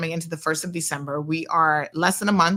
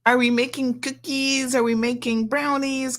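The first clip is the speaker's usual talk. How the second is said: put-on eager kid; 6 semitones higher than usual. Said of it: "she's like".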